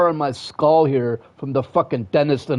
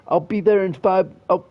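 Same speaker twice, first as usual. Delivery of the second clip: mocking excuse; 5 semitones higher than usual. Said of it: "you say".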